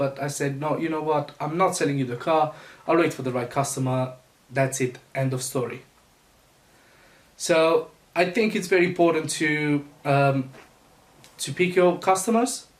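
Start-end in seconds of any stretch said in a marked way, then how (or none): none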